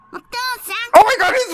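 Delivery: high, loud and slow stretched oh my god; astonished gasp of a phrase; shocked. Real, not acted. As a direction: drag it out in disbelief. Shocked by the character's voice.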